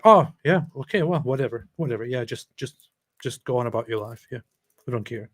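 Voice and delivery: mock indifference. Host voices Israel's imagined reply to Hamas, mock nonchalance.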